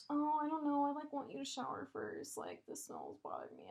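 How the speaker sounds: mocking the ex. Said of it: "But you're like, 'Oh".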